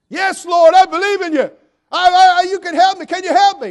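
high, loud eager begging; frantic pleading. Acted. Dangling man pleads with the Lord, high and loud. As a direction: beg the Lord to save you.

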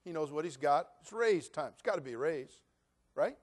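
normal talking voice

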